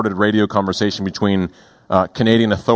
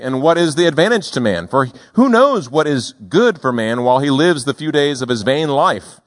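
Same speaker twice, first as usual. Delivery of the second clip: ordinary talk, nothing marked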